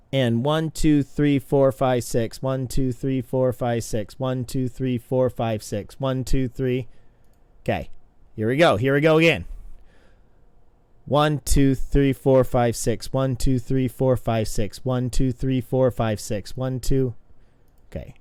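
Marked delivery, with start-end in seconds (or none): 0.1-6.9 steady counted beat; even one-to-six count; rhythmic counting. Shown as a demonstration. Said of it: "counting kicks in rhythm". 11.1-17.1 steady counted beat; even one-to-six count; rhythmic counting. Shown as a demonstration. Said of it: "counting kicks in rhythm".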